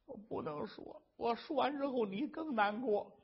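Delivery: a hint of a whispered, ashamed wife; grieving wife. Wife refusing to tell her husband, hushed and ashamed. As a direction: hold back the words, barely voiced at first.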